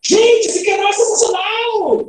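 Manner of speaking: high, drawn-out enthusiastic cheer; excited exclamation. Shown as a demonstration. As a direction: gush it high, stretching the words. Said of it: "uma exclamação mais legal ainda".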